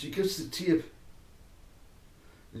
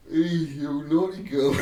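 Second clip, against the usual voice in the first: playful scolding; 4 dB louder than usual. Retold or imitated. Playful scolding amid laughter.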